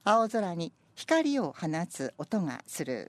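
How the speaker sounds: slow, measured poem reading; poem recitation. Acted. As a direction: read it slowly and evenly. Reads senryu aloud.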